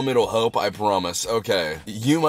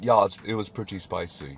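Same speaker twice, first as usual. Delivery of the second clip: put-on British accent; 3 semitones lower, 4 dB quieter than usual. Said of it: "'cause he's British".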